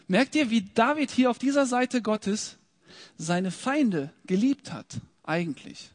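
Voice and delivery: ordinary delivery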